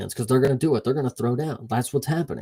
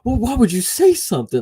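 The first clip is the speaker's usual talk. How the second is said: panicked gym mates; 6 semitones higher, 4 dB louder, faster than usual. Retold or imitated. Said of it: "everybody's like".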